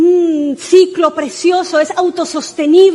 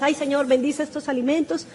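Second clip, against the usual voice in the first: everyday grace; 9 dB quieter than usual. Acted. Preacher imitating a routine prayer over food, softly. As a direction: toss off a quiet routine blessing. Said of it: "muy diferente a la oración que usted hace todos los días".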